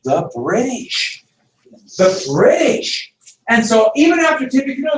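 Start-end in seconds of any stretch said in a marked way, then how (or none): 0.0-3.1 "The British" drawn out slowly, rising at the end; slow, weighty "The British" said twice; drawn-out emphasis. Shown as a demonstration. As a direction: stretch "The British" slowly for effect. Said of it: "repeated for emphasis".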